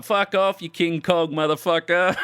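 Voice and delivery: high-pitched mock abuse; retold heckling yell. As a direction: imitate a drunk hothead hurling an insult. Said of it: "my mate was yelling shit".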